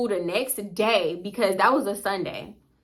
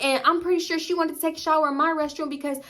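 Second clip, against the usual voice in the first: higher-pitched acted telling-off; mom going off; 5 semitones higher than usual. Mom embarrassing daughter in front of guest, going off. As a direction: rattle off a mock mom's scolding. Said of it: "just going off on her".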